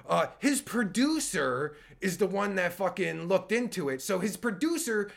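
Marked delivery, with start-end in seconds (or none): 0.1-4.0 stuttering John. Shown as a demonstration. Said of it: "I'll do some stuttering John work here".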